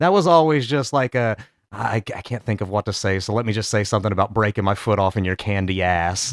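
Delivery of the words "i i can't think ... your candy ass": 1 imitating The Rock. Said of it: "The Rock always had his catchphrases".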